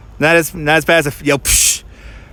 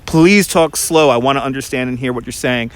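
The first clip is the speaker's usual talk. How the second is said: imitated insistent request; 2 semitones lower than usual. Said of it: "she made it very important".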